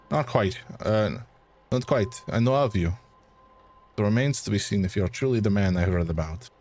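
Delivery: put-on a light French accent for the debunker; lightly French-accented, polite and measured. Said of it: "it's gonna be a struggle for me to keep this accent".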